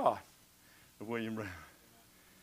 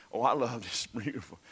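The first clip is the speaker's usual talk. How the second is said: ordinary talk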